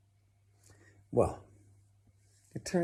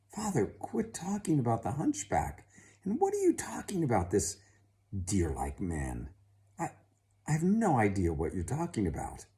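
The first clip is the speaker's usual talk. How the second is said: exasperated daughter; 5 semitones higher, 5 dB louder than usual. Acted.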